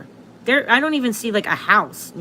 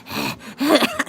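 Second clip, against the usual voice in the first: heavy breathing; 3 semitones higher than usual. Shown as a demonstration. Astrologer shows viewers how heavily they breathe, heavy breathing. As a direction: mimic a heavy mouth breather. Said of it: "I'm breathing really heavy into the phone".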